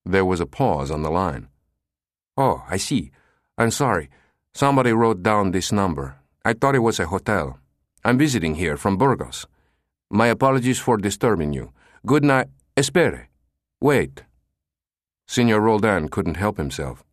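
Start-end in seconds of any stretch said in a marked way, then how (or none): 2.4-12.5 nasal with a cold. Acted. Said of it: "He sounded nasal". 12.8-14.2 higher, urgent call to stop him; calling back urgently. Acted. Roldan calls the caller back.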